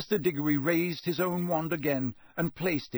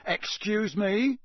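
raised, very slow disbelieving question; you can't believe your ears; incredulous; 8 semitones higher, much slower than usual. A narrator's reading. Official hearing Harry's claim, incredulous. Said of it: "said Mister Diggory incredulously".

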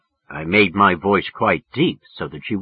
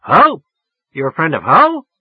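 mock yelling; 7 semitones higher, 8 dB louder than usual. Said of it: "She was damn near yelling at me".

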